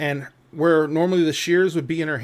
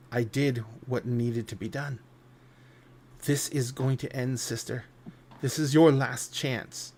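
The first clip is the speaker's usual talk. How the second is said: cold Atropos; 2 semitones lower, 5 dB quieter than usual. Acted. Atropos pleads with her sister.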